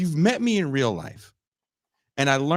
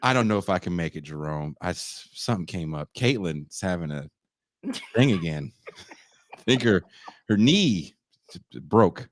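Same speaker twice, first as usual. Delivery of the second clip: mock excuse; 9 semitones lower than usual. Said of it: "excuse to Jerome".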